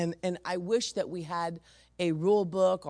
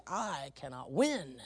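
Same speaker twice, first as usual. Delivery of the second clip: laughing resignation; 3 semitones lower, 4 dB quieter, slower than usual. Retold or imitated. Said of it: "And he's like".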